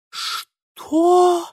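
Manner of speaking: very high, sharp outraged what; indignant. A narrator's reading. Lidia reacting to Ingvar, outraged. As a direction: snap it in disbelief.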